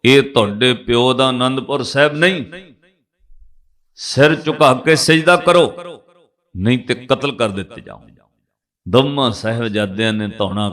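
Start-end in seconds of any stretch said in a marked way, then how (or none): 0.0-8.0 raised, commanding threat; mildly angry retold order. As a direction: imitate an angry governor ordering captives. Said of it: "Wazir Khan ਗੁੱਸੇ 'ਚ ਬੋਲਿਆ".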